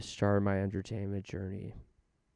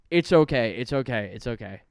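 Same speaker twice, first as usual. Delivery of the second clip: self-reassurance fading; 5 dB louder than usual. Real, not acted. After admitting regrets, he soothes himself, louder then fading off.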